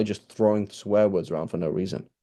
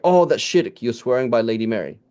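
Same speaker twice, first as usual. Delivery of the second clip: mock scandalised objection; 2 semitones higher, 4 dB louder than usual. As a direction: object like an imagined scandalised critic.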